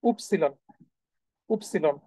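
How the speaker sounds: উপসিলন said slowly as oop-see-lon, each syllable clear; German letter Y. Shown as a demonstration. Teacher drills the German Y name for students, clear and repeated. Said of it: "মনে রাখবেন এটাকে".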